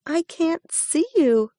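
high, eager little hare; young hare voice. A narrator's reading. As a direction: voice a small polite rabbit. Hare speaks.

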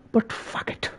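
whispered Scouse "but fuck it"; Scouse accent. Shown as a demonstration. Streamer tries a Scouse phrase for chat, whispered in Scouse accent. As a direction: say it like a Liverpudlian under your breath. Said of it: "Such a Scouse phrase".

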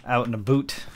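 mock Canadian "out in a boot"; "boot" said like "aboot"; Canadian accent. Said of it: "Working on my Canadian accent".

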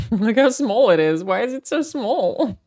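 amused laugh. Real, not acted. Laughing at something small.

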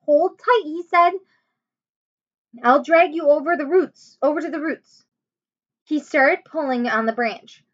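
put-on lively read-aloud voice for children; story narration. A narrator's reading. Teacher reading a chapter book to her class, animated.

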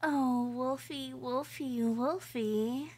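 creepy, giddy yandere voice, swinging between coos and hushed whispers; obsessive captor. Acted. Captor coos at tied-up Wolfie, creepy and giddy. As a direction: coo over your helpless captive like a lovesick stalker.

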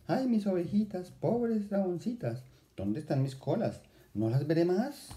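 high, pleading lament for the lost tails. Acted. Pastorcita to her tailless sheep, high wail.

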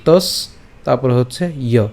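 "তস" closed on the s, then "ইয়" separately; syllable breakdown. Shown as a demonstration. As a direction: split it into "তস" and "ইয়". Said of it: "তস পর্যন্ত উচ্চারণ করলাম".

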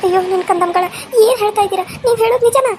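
a kindly uncle in shock. Acted. Speaker voices uncle. (ಆಘಾತಗೊಂಡ ಮಾವ)

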